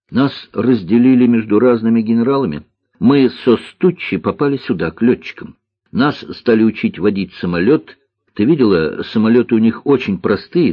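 put-on matter-of-fact young pilot's account; маленький лётчик. Маленький лётчик рассказывает о службе. (слегка обозначенный голос маленького лётчика)

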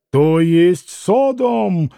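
drawn-out indignant exclamation; narrator's restrained roar; mild roar. Acted. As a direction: draw it out in outrage. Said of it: "взревел вдруг пан Врублевский".

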